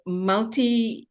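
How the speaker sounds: normal talking voice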